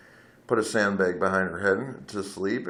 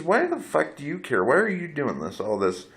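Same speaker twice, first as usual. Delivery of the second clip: a higher voice, mimicking her snappy challenge; mocking the drunk woman; 7 semitones higher than usual. Retelling what the woman snapped at him in the bar, mock higher voice. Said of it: "she says".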